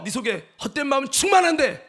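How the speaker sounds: loud scolding from the inner voice; shouted accusation. Retold or imitated. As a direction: throw the charge back in a shout.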